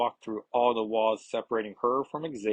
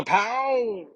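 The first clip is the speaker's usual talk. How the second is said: drawn-out "zapow" sound effect; comic zap effect; 12 semitones higher, 3 dB louder than usual. Acted. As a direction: voice a cartoon blast, stretched out.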